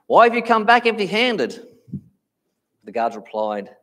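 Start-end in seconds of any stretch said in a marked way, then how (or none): 0.1-1.7 loud, high, incredulous challenge; raised-voice outraged question; indignant demand. Retold or imitated. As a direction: demand an explanation from failed underlings. Pharisees confront the returning guards.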